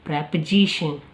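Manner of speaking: प्रेपोजिशन said with a short "pre"; प्रेपोजिशन, short e in the first syllable; pronunciation demo. Shown as a demonstration. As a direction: say प्रेपोजिशन as "preh-pozishun". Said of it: "यहाँ पे sound देता है जी".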